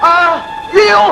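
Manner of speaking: hammed-up cries of pain, shooting very high on உயிர் போகுதே; faked dying groans to win his wife back; fake death agony. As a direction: wail like a man dying of poison, overplayed. Husband fakes poison agony.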